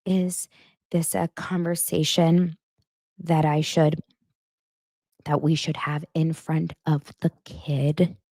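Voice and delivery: slow, halting mock-dramatic question. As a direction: draw it out with weighty pauses. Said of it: "'cause Robin's so dramatic".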